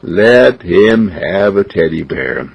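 slow, coaxing dad; slowly pleading with his wife; slow coaxing plea. Acted. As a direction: draw it out to coax mama.

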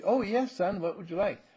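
a hint of sing-song motherliness; obliging mother. Voicing mother answering sweetly.

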